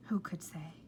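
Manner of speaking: breathy hushed question; whisper. A narrator's reading. Narrator hushing the reader about the squirrel. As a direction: whisper it like a secret.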